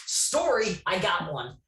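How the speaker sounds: sudden excitement. Retold or imitated. Excited aha moment, remembering.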